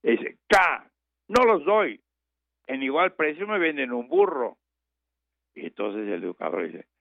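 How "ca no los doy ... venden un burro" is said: stubborn refusal. Retold or imitated. Farmer refuses a third time.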